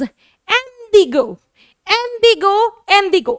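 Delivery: slow French इंडिगो with nasal ending; French pronunciation demo. Shown as a demonstration. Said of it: "इसकी pronunciation बन जा".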